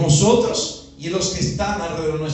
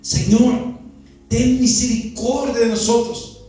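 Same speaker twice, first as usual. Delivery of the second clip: mildly raised pleading call; crying out; 4 dB louder than usual. Acted. Lepers begging the Lord for mercy, moderately raised cry. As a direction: quote the plea with some extra force. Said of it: "y comenzaron a gritar".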